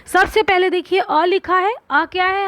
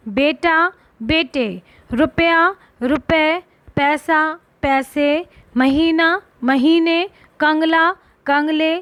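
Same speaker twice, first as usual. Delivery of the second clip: slow reading of pairs; slower than usual. Shown as a demonstration. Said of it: "देखिए क्या लिखा है".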